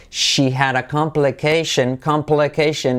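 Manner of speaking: slow "complication" with clear l and "shen" ending; key-letter demo. Shown as a demonstration. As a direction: stretch "complication" as "com-pluh-KAY-shen". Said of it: "letra clave L".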